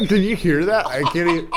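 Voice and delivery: high, laughing through the words; helpless laughter. Real, not acted. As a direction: barely get it out for laughing. Cracking up over throat noise.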